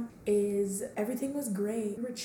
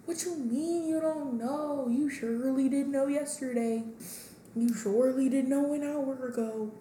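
incredulous; 5 semitones higher than usual. Retold or imitated. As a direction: push back in disbelief, higher. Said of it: "retold text reply, incredulous".

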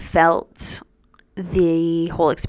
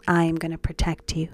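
hushed, tender half-whisper, much softer; softly whispered comfort; 8 dB quieter than usual. Retold or imitated. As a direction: whisper it like a promise to a child. Friend's tender self-talk quoted.

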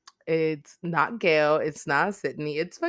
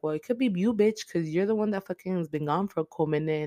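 mock hostile; 3 semitones higher than usual. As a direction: imitate someone pointing the finger. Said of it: "very hostile".

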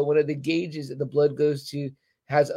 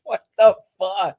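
slowed, louder, stretched out; slow disbelief; 4 semitones higher, 6 dB louder, slower than usual. Retold or imitated. Fan reacting to the show, slow stunned disbelief. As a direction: drag it out, stunned. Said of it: "I was like".

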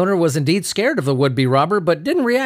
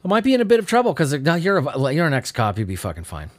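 quoting the owner. Retold or imitated. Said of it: "Recorded a video of the aftermath saying".

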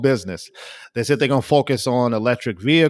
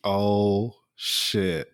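stunned whisper; 4 semitones lower, 6 dB quieter than usual. Real, not acted. Stunned reaction to the story.

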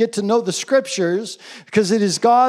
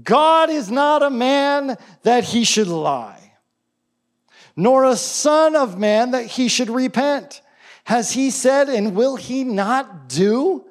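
raised, declaimed prophecy; Balaam; 4 semitones higher, slower than usual. Retold or imitated. Prophet answering the king with God's word, lightly acted proclamation. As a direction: proclaim it with emphatic, higher pitch. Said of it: "what does he end up saying?".

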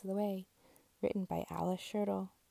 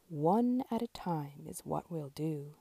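lower, grand mayor voice; lower, speech-making mayor; mayor's voice; 3 semitones lower than usual. Acted. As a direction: address the crowd like a mayor.

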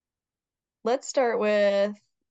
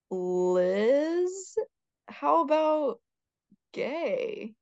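higher, playful, rising tease; teasing suggestion; 8 semitones higher, much slower than usual. Real, not acted. Hosts joking that Liz is gay, playful tease. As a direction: tease the idea with a sly lilt.

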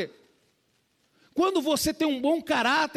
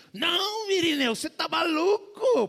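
indignado; 5 semitones higher than usual. Retold or imitated. Pastor reage indignado ao conselho.

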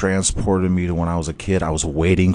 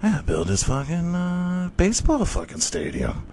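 higher, hurried, frantic; 8 semitones higher than usual. Retold or imitated. Husband telling his wife, frantic and high. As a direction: rush it like a man possessed. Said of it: "And he's like".

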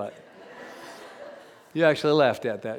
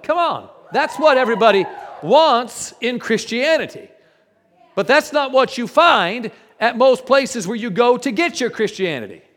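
loud, high preaching to the crowd; preaching shout; 7 semitones higher, 9 dB louder than usual. Real, not acted. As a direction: rouse the congregation at full force. Preacher rousing the congregation.

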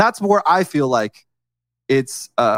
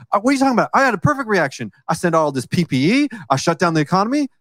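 a higher, mocking Trump impression; mock him as he brushes off criticism; imitating Trump; 3 semitones higher, faster than usual. Mocking Trump in the debate, higher pitched. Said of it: "he said, in the debate".

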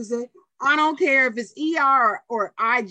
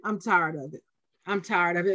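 emotional; 6 semitones lower than usual. Real, not acted. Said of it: "I'm emotional".

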